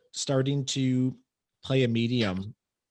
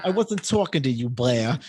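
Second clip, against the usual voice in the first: bad Bronx accent; 3 dB louder than usual. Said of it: "a really bad Bronx accent".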